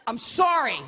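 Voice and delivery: loud, curt fed-up "Fine. I'm sorry."; grudging apology. Retold or imitated. The man to the woman mid-fight, a grudging loud apology. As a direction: give in without meaning it. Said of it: "goes like this".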